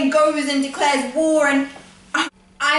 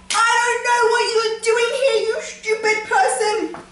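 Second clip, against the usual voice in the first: mock put-down; 8 semitones higher than usual. Answering Jake's face with contempt.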